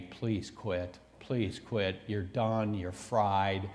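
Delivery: low, soft pleading voice of the leg; lightly voiced pleading leg; begging leg voice. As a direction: whimper like a tired leg begging. Leg begging him to quit.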